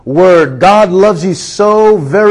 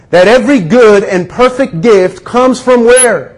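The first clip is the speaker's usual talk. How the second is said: preaching. Acted. Pastor urging the congregation about God's good gifts, fervent preaching. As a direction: build it like a Sunday sermon.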